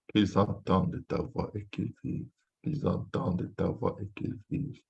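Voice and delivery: soft, subdued petition; hushed prayer. Real, not acted. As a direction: pray it quietly after the great cry. Hushed after the prayer's climax.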